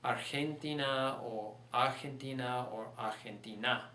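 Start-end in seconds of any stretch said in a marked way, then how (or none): 0.0-1.2 Argentina stressed on the second syllable, ar-HEN-ti-na; misplaced stress. Shown as a demonstration. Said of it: "Those would be the other options". 1.7-2.7 Argentina stressed on the first syllable, AR-hen-ti-na; misplaced stress. Shown as a demonstration. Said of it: "Those would be the other options". 3.0-3.8 Argentina stressed on the last syllable, ar-hen-ti-NA; misplaced stress. Shown as a demonstration. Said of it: "Those would be the other options".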